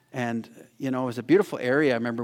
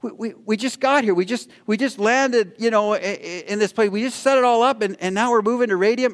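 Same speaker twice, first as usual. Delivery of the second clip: grumbling complaint; 7 semitones higher than usual. Retold or imitated. Preacher retelling his dream, grumbling at the move. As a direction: complain like your camp was just ruined. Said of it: "I started grumbling immediately".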